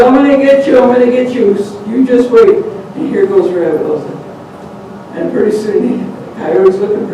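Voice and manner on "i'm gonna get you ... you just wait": high, loud vengeful vow; angry threat. Acted. Coyote with broken teeth vowing revenge, angry. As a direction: swear to get him back.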